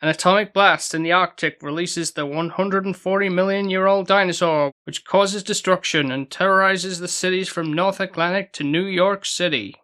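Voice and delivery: mock official movie trailer announcement; announcer voice. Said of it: "Shall we do it in an announcer voice?".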